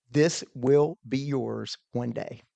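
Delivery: slow, measured pronouncement; an inner voice delivering a promise; voice of premonition. Retold or imitated. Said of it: "something said to me".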